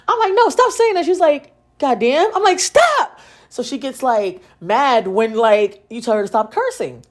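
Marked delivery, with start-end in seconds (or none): 0.3-1.0 high, urgent retold reprimand; scolding mother. Mom to her cursing daughter, scolding. 1.8-2.3 lightly imitated little kid, pitched up; squeaky toddler voice. Daughter parroting mom's curse, lightly squeaky. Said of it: "it's like a little squeaky voice". 2.6-3.2 very high-pitched sharp command; exasperated scolding. Retold or imitated. Mom to daughter repeating the curse, exasperated. Mother scolding child for cursing.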